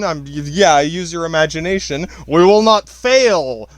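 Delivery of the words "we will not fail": slow, loud, badly attempted Russian accent; Harrison Ford's Russian captain. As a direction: declare it like a struggling Russian submarine captain. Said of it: "Harrison Ford playing a Russian submarine captain".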